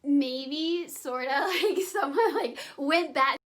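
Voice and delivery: put-on high giggly valley-girl voice; bimbo voice. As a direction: giggle through it like an airhead. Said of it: "I will cut the bimbo voice out".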